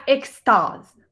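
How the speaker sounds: "extase" with the A shaded slightly toward O; A con algo de O. Shown as a demonstration. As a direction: say "extase" in French, its A tinged with O. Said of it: "Yo diría que tiene un poquitico de O". ("extase" con la A un poquitico hacia la O)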